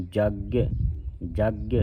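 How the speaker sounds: ਜਗ as "jagg-ya", doubled g with a slight y glide; conjunct pronunciation. Shown as a demonstration. Teacher shows the half-yayya sound, ਜਗ as "jaggy". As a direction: tighten ਜਗ and release it into a short "ye". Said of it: "ਇਸ ਤਰ੍ਹਾਂ ਉਚਾਰਨ ਕਰਨਾ ਹੈ".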